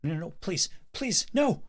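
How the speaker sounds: high, rising pleas turning to a shriek; desperate begging. Acted. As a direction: beg for your life. Victim begs before attack.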